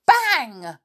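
high, sudden storybook bang; startling high-pitched exclamation; exclaimed bang. A narrator's reading. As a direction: burst it out like a popping balloon. Narrator voices balloon bursting.

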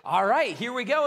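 loud, eager kickoff; pumped and ready to set off; excited joy. Acted. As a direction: play a disciple bursting to start. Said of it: "you just feel this excitement and this joy".

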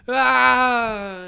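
sudden high shriek of fright; mock scream. Comic imagining a ghost, lets out a startled shriek. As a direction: scream like you just saw a ghost.

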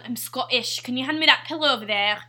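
lightly attempted Scottish accent. Player doing the pillow line for a guessing game, light Scottish accent. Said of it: "It's Scottish".

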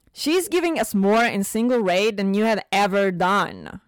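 snarling. Acted. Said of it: "she snarled".

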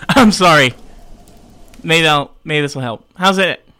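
crackly, breaking-up phone voice. Real, not acted. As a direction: sound crackly over a bad line. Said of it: "a little crackly".

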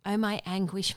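first anguished outcry; anguished cry. Acted. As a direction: lift "my anguish" like a wail of pain. Lament read from scripture.

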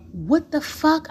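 high, startled curse; shocked outburst. Retold or imitated. Speaker to silent Rob, a high startled curse. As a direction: blurt it out in shock.

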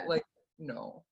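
slow, high, reluctant let-down; soft, hesitant no; awkward refusal. Acted. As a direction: draw it out so it won't hurt. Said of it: "she's afraid of hurting your feelings".

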